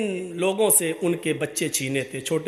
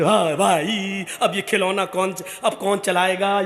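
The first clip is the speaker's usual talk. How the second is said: mock wailing mother. Preacher mimicking mothers who wail over dead children, mild mock lament. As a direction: imitate a wailing mother lightly, a touch mocking. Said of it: "اور چیخے".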